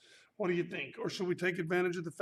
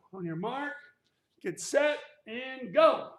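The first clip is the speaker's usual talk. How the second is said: higher, louder start call; 5 semitones higher, 5 dB louder than usual. Real, not acted. Starting the jump-rope count.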